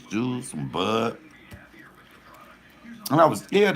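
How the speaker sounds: ordinary talk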